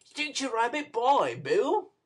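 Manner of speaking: put-on high, eager boy's cry; a lightly voiced boy's excited cry; exclaimed. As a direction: show it off proudly. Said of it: "exclaimed the young gentleman".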